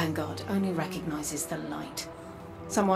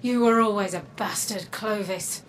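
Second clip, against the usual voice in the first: louder, angry reproach; raised-voice contempt, easing on the name; bitter accusation; 2 semitones higher, 4 dB louder than usual. Acted. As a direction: hurl it at your grandfather. Granddaughter confronts Clovis in quarrel.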